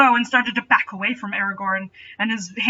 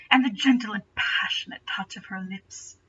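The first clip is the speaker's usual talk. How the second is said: whisper; 6 dB quieter than usual. A narrator's reading. Tender memory of her kiss.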